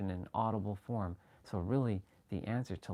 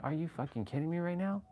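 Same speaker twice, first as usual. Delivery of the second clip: incredulous outburst; 7 semitones higher than usual. Retold or imitated. Reliving the epiphany.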